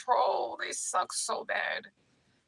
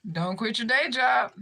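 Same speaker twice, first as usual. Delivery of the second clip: laughing; 5 semitones higher, 3 dB louder than usual. Real, not acted. Mocking the troll a second time, laughing through it. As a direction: repeat the taunt through a laugh.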